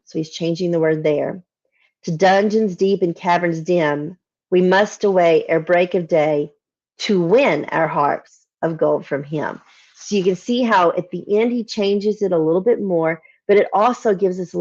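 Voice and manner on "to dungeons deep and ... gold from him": slow, measured recitation of verse; poem reading. Acted. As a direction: read it like an old ballad, savouring each line. Reciting final stanza.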